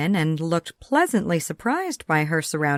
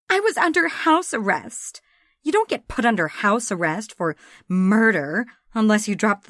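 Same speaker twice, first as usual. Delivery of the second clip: put-on higher, breezy tough-girl voice; offhand Sam; 3 semitones higher than usual. Sam waves off the murder accusation, breezy. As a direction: brush the accusation off.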